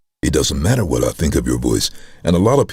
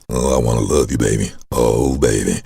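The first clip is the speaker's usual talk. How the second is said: low, crooning love-man voice; a famous singer; 5 semitones lower than usual. Retold or imitated. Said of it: "That guy turned out to be a famous singer"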